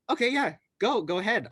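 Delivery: lightly mocking retold yes; mock sarcastic. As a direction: imitate someone egging you on sarcastically. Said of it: "they sarcastically said yes".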